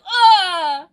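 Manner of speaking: loud, high fangirl "ah"; swooning squeal. Acted. Streamer reacting to Corbeau's worried confession, swooning squeal. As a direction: let out a loud, delighted wail.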